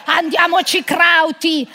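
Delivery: slow, loud hammed-up Oktoberfest cry; slowed, shouted playful come-on; mock German shout. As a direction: bellow it like a beer-hall joke. Mock Oktoberfest role play.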